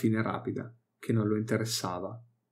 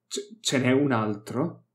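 stammered; slower than usual. Acted. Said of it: "balbettò Vok".

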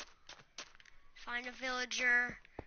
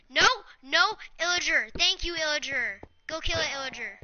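being chased; 5 dB louder than usual. Real, not acted. Golem chasing, calls for help.

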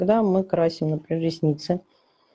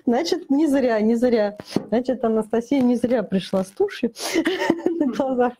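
laughing; 4 semitones higher than usual. Real, not acted. Delighted a viewer found it useful.

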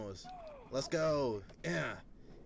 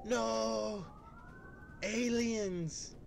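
alarmed cartoon sidekick; 12 semitones higher, much slower than usual. Voicing a game character's alarm.

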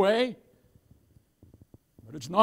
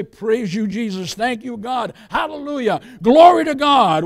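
rising praise; 6 dB louder than usual. Retold or imitated. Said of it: "we can still say".

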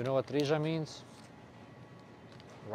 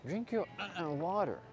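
imitating a slogan; 7 semitones higher, 5 dB quieter than usual. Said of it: "That's the Jabin slogan".

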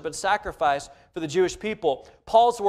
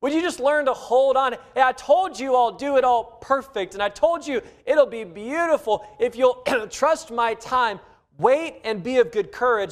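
urging voice of God; 4 semitones higher than usual. Acted. God speaking, voiced by preacher.

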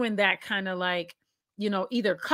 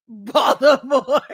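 slow, drawn-out "Baltimore", amused; thick Baltimore accent; 6 dB louder, slower than usual. Retold or imitated. Guest marvelling at how thick it is, Baltimore accent. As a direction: stretch out the name in Baltimore dialect. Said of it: "in the most Baltimorean of, like, dialects".

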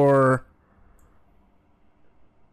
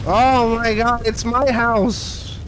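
excited; slower than usual. Real, not acted. Panicked at house in game.

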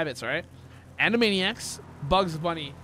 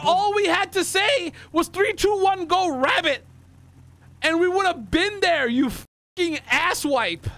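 high-pitched indignant rant slowing to the insult; exasperated scolding; 4 semitones higher than usual. Real, not acted. Player telling partner what they should have said, exasperated. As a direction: spell out the missed chance in outrage. Berating partner for spoiling the answer.

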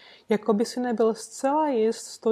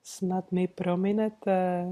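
sweetly polite; 2 semitones lower, slower than usual. Acted. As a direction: soothe the startled man with courtesy. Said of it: "líbezně pravil Holmes".

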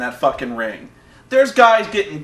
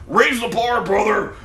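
raised, rallying wrestler promo voice; Hulk Hogan; 4 semitones higher than usual. Retold or imitated. Host mimics a wrestler praising the show, hyped promo impression. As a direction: wrestler addressing the crowd, higher-pitched. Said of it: "Hulk Hogan comes out. ... He's like, he's like".

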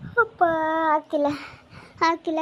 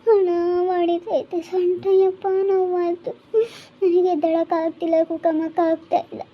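louder, pained wailing about her back; crying out in pain; 3 semitones higher, 5 dB louder than usual. Acted. Fallen woman tells family her back hurts, louder pained crying. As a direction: cry out the hurt as if unable to rise. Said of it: "ಯಾಕೆ ಅಳ್ತೀಯ?".

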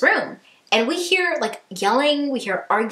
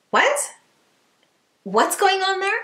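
sudden high, stunned "what?"; shocked; 10 semitones higher than usual. Real, not acted. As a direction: gasp it out in disbelief. Hearing the fight, shocked.

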